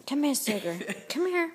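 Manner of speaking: high sing-song call to the pet. Real, not acted. Owner calling her pet sugar, high sing-song coax.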